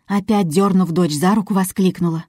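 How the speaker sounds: ordinary delivery, nothing marked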